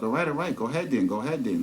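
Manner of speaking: mock a bothered man waving her ahead; a touch of annoyed stranger; agitated retort. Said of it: "The guy was real agitated".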